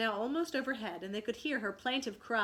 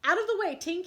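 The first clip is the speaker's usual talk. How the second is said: much higher, loud warning shout; 9 semitones higher, 8 dB louder, faster than usual. Acted. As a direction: yell her clear of the shot. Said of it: "he shouted".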